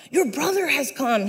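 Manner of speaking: lightly voiced surfer servant; a hint of laid-back surfer. Servant reports the brother's return, light surfer voice. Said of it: "like, a surfer voice in my head".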